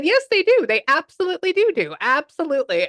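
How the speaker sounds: very high, loud, eager yes; emphatic agreement. Retold or imitated. Answering her question about dogs and cats, emphatic agreement. Medium emphatically reassuring the excited spirit.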